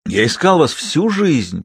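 slow, lightly voiced devotion; a hint of an old suitor, slow and heartfelt; earnest proposal. A narrator's reading. Папик proposes. (медленно и проникновенно)

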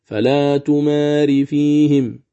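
فلا تماري فيهم recited slowly, ياء kept; slow recitation. Shown as a demonstration. Teacher reciting فلا تماري فيهم in connection. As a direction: recite تماري in its joined form. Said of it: "إذا وصلنا نقول".

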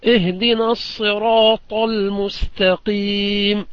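slow, measured recitation; slow Quranic recitation. Shown as a demonstration. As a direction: chant it slowly like tajweed. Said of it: "طيب".

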